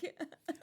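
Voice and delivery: high, brief laugh as a reply; awkward retold laugh. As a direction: act out laughing it off. Acts own reply to lecturer's remark.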